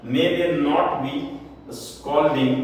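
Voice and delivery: slow, careful model question; slow dictation. Shown as a demonstration. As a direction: drag each word for the class. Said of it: "ध्यान से समझो". (धीमे से बोलना)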